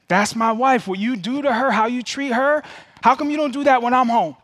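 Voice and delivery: mean business with your son; retold dad voice scolding his son about his wife; stern dad voice. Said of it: "I had to use the dad voice".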